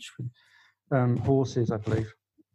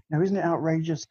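serious journalist; 5 semitones higher than usual. Retold or imitated. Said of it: "very serious radio news journalist".

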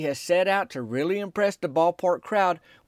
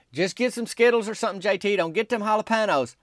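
urging; 6 semitones higher than usual. Retold or imitated. Calling advice to player in line.

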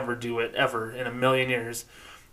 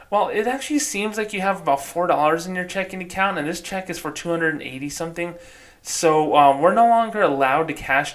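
high teller voice, easing down; customer-service voice pitched up; bank teller; 5 semitones higher than usual. Acted. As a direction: put on a raised-pitch voice to explain politely. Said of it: "softer voice and a little bit more high-pitched".

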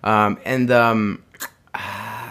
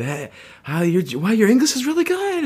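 much higher, gushing mock compliment; exaggerated praise; 10 semitones higher than usual. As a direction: squeal the compliment up high. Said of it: "I said".

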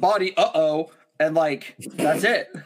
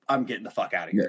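low, muttered panic; low scared mutter; 9 semitones lower, 4 dB quieter, much faster than usual. Retold or imitated. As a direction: mutter it low while backing off. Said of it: "I was like".

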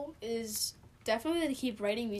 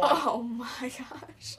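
whisper; much slower than usual. Real, not acted. Reacting to embarrassing shout-out.

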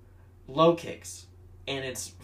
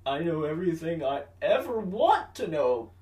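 mock retort; 4 semitones higher than usual. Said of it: "Grady's like".

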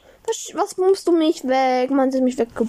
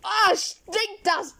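mock disgust; 3 semitones higher, much slower than usual. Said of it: "Schrei nicht so".

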